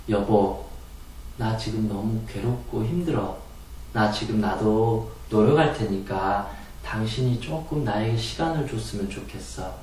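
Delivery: soft, low, pleading tone; quietly pleading to a husband; gentle plea. Shown as a demonstration. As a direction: ask softly for time. Wife's soft honest plea.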